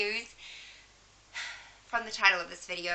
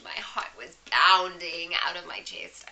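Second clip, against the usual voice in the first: nervous whisper; 4 dB louder, slower than usual. Real, not acted. Nervous waiting for call.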